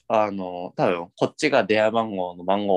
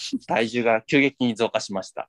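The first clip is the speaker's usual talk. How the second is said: scale alert voice. Retold or imitated.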